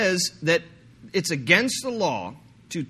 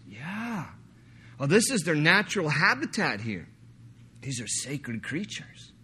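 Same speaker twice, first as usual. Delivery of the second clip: put-on sudden Scottish accent. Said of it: "suddenly I went Scottish".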